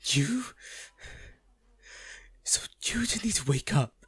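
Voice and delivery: breathy unvoiced whisper, close to the ear. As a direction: lean in and whisper the plea. Whispering at the bedside.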